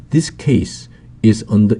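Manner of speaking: very slow, every word laid out; slow, careful example sentence; slow model reading. Shown as a demonstration. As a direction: read it slowly for learners to copy. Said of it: "model sentence read slowly".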